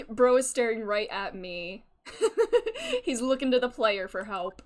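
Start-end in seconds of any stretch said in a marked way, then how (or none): 2.1-3.0 high giggle. Real, not acted. Laughs at the character staring.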